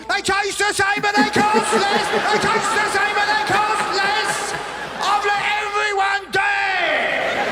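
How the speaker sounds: high, loud hammed-up frenzy; hammed-up raving old man; mock frenzy. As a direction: rave it out over and over.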